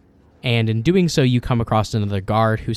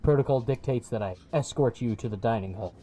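muffled guard voice; 8 dB quieter than usual. Acted. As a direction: speak flatly through a helmet.

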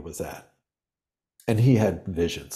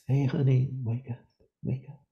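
gentle wake-up; 6 semitones higher than usual. Retold or imitated. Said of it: "sometimes with gentle practice".

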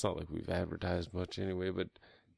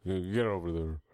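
retold yell; 5 dB louder than usual. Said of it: "I'll be yelling shit".

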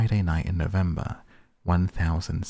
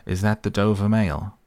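loud, raised call across the mist; calling from afar; 3 semitones higher, 6 dB louder than usual. A narrator's reading. Rider calling to the coach from the mist, loud call. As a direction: call out to a coach you cannot see. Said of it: "a man's voice called from the mist".

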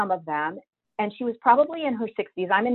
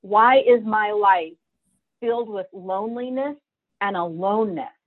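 crying; 2 semitones higher than usual. Retold or imitated. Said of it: "I'm screaming, I'm crying".

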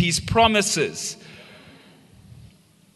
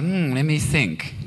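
mock pondering. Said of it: "Everyone's like".

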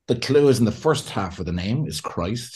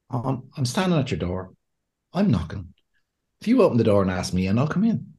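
gentle knock. Retold or imitated. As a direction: ask to come in politely, no pushing. Gentle Jesus knocking at door.

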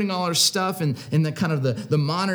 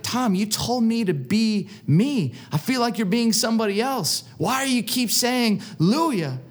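higher-pitched mock complaint; bewildered protest; 5 semitones higher than usual. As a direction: question a friend's odd behavior, pitch raised. Retold bewildered challenge to friend.

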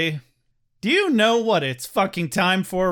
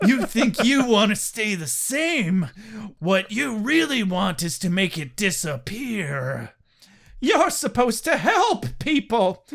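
laughing dramatic reading. Acted. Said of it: "dramatic reading".

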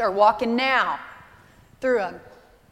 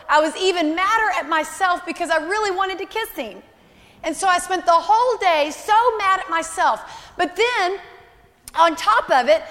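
child's retold confession; 4 semitones higher than usual. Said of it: "and she said, tears strolling".

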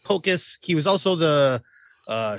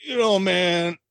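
Herschel Walker impression. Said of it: "do Herschel Walker explaining the plot".

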